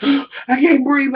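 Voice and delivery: gasping, slow and high from laughter; breathless from laughing. Real, not acted. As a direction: choke it out mid-laugh. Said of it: "I'm laughing so motherfucking hard".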